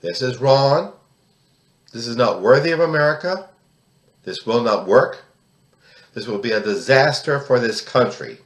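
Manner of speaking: telling Congress off. Pretend. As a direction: deliver it like a rally chant at a congressman. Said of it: "tell them".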